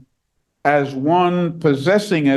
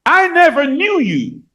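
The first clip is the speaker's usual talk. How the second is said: stern verdict; 10 semitones higher than usual. Acted. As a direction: rule on them with finality. Christ's verdict quoted in sermon.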